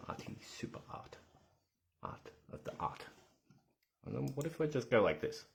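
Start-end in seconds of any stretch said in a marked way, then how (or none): 0.1-3.0 whisper. Real, not acted. Silly muttering while drawing.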